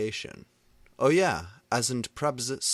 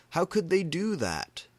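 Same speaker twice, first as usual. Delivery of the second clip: angry outcry; 9 semitones higher, 5 dB louder than usual. A narrator's reading. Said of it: "I shouted arngly".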